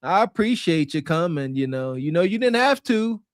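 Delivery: a hint of a cool, condescending thank-you; cold polite woman. Man imitating a woman thanking a helper, mild mock cool politeness. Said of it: "She, she talks like this".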